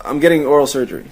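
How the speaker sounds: quoting a movie line. Acted. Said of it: "It's a scene from Magnolia".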